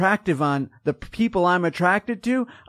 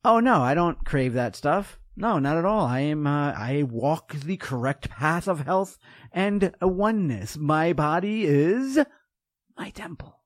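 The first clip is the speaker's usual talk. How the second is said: mock pious denial. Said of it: "if I said".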